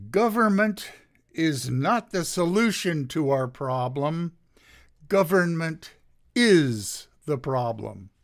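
a touch of stentorian oratory; Reagan's stentorian actor voice. Retold or imitated. Lecturer quoting a president's famous line to a class, mildly stentorian. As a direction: lightly imitate a declaiming actor-president, leaning on key words. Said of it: "stentorian actor's voice".

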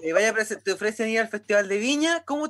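a laugh breaking into the question; giggling mid-word as she starts asking. Real, not acted. Interviewer laughing while asking Mali about a show.

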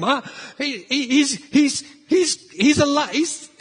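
high, stammering panic ending in a scream; hammed-up terrified stutter, breaking into a yell; mock screaming. Disciples seeing a figure on the water, mock screaming. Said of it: "I mean, they're screaming".

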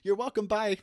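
smug villain sign-off; gloating cartoon villain; mustache twirling villain. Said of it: "twirl my mustache".

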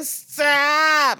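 high, loud mock soap wail; hammed-up plea to a husband; Alex, melodramatic wife. Cheating wife to her husband, hammed-up high protest. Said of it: "dialogue between Alex and her husband".

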